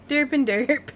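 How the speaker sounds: goofy derp sound. Retold or imitated. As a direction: blank silly derp. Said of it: "and I'm like".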